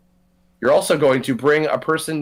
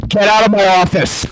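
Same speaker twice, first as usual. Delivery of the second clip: louder gravelly tycoon ordering out; gruff boss voice; 6 semitones higher, 9 dB louder than usual. Pretend. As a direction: bark him out of the office. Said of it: "Reagan and Alex meeting".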